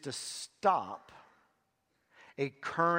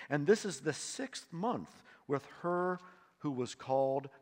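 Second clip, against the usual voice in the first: measured, rising reading of the Bible passage; scripture reading; 4 dB louder than usual. Acted. Pastor reads the angel's visit to the church, solemn and rising. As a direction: read the text out to the congregation with weight.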